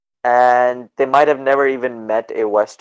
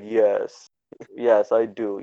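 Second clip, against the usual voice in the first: low, soft, bored answer; 4 semitones lower, 5 dB quieter, much slower than usual. Retold or imitated. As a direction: mimic a weary, uninterested clerk. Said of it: "bored tone".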